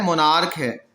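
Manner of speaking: मोनार्क ending in a hard k; monarch with hard k. Shown as a demonstration. Teacher correcting teachers who say monarch with ch. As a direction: stress the k in मोनार्क, not ch. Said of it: "मोनार्च नहीं guys".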